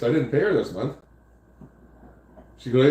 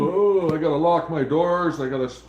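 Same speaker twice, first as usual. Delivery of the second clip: mock freaking out; 4 semitones higher than usual. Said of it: "Larry was freaking out".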